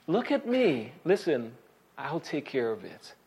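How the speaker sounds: put-on a soft, gentle reassurance to a child; comforting parent. Parent reassuring a child who failed, softly soothing. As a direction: lift them up quietly, I've got this.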